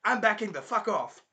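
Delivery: high, loud blurted retreat; mock alarm. Naofumi recoiling from the girl, loud mock alarm. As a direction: cry it out as if recoiling.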